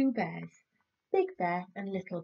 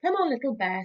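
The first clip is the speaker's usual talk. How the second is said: Big Bear calling; 6 semitones higher, 5 dB louder, faster than usual. Acted. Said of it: "said Big Bear".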